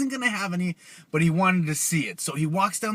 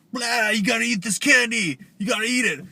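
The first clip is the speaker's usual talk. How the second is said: hammed-up chasing boogeyman, pitched up; Oogie Boogie; 4 semitones higher than usual. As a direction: menace them like a cartoon monster on their heels. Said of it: "So Mister Oogie Boogie was behind him".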